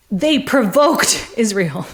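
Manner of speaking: mock quote. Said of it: "this is what he said".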